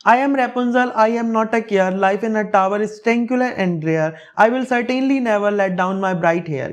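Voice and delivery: slow recitation of a dreamy verse; slow poem reading. Acted. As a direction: read it out slowly and evenly. Reads the Rapunzel stanza.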